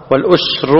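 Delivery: والأسر with no vowel after س; sukun on س. Shown as a demonstration. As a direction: model والأسر as wal-usru. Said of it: "بسكون السين". (والأسر بسكون السين)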